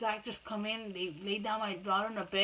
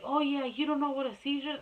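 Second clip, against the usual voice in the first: higher mocking voice for the retold nurse; sceptical challenge; 5 semitones higher than usual. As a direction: act out a disbelieving jab. Nurse challenges mother in retold quarrel.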